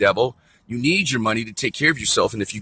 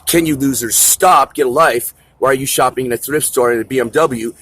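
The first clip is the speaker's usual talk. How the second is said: retold scolding; 4 dB louder than usual. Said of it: "And I say".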